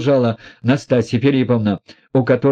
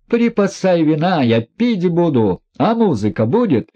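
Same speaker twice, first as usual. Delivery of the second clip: lightly voiced proud, bitter woman; a hint of reckless defiance, pitched up; proud Nastasya; 7 semitones higher than usual. A narrator's reading. Woman mocking herself before the prince, proud and bitter.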